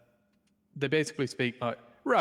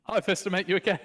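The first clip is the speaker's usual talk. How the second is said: put-on voice; 6 semitones higher, 4 dB louder than usual. Greeting in put-on voice.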